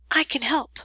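urgent unvoiced whisper; hushed and eager; breathless whisper. A narrator's reading. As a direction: whisper the idea excitedly. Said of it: "she whispered breathlessly".

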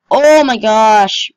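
amazed. Real, not acted. Relief after the jump.

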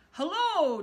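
a bright, loud greeting; loud hello. Acted. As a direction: call out hello boldly. Donald greets the creature.

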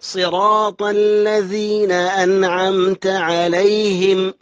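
slow chant, clear n in أنعمت; izhar. Shown as a demonstration. Teacher demonstrates the rule, slow chant with clear n in أنعمت. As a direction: recite slowly, no hum on n of أنعمت. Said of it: "هذه حروف الإظهار".

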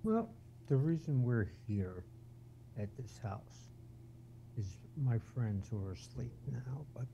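hushed, very soft voice with pauses; whispering. Real, not acted. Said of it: "That's why he's whispering".

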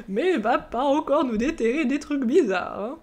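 high creaky elder voice; old man voice. Shown as a demonstration. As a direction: keep the old man voice going. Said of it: "ma voix de vieux".

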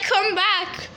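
high-pitched pleading pet voice; voicing the dog. Dog begging to be on video, high put-on voice. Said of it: "she's like".

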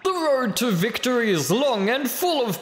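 lightly voiced ring announcer; boxing announcer. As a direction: hype up the fight like a ring MC. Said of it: "I get to do this boxing announcer voice".

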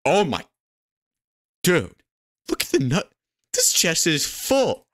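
high-pitched thrilled discovery; amazed excitement. Real, not acted. Player finds a full chest, amazed excitement.

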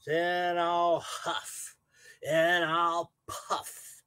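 slow, drawn-out wolf threat; lightly voiced wolf, slow and menacing; big bad wolf. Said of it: "replied the wolf".

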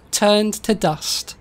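slow, measured pronouncement; deliberate insistence. Real, not acted. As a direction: draw it out to settle the matter. Insisting on the story's ending.

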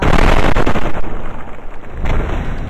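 long, loud, breathy blast noise; play-acted rushing explosion sound; mouth-made explosion noise. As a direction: blow out a long pretend blast. Voiced sound effect in play.

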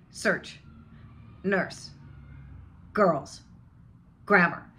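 put-on Search, nurse, girls kept short, R curled; very short schwa. Shown as a demonstration. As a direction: model each word briefly, straight onto the R. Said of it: "it's very short".

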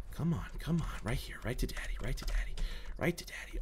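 whispered coaxing, luring it close. Real, not acted. Player whispering to a bat bug, luring it. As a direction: whisper softly to lure the bug in. Coaxing creature toward him.

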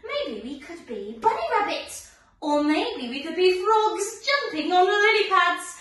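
bubbly, sing-song dance teacher; chirpy children's class leader voice; overbright kids party host. Acted. Leads lively kids dance class.

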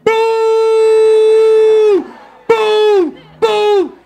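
loud booing shout from the crowd. Retold or imitated. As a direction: boo him off the stage at full voice. Crowd booing him on stage.

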